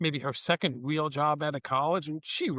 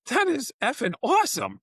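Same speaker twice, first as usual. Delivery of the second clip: high-pitched laughing burst of delight; retold excited cheer, laughing; thrilled cheer; 8 semitones higher than usual. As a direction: cheer her on, pitch jumping up. Cheering employee's new job.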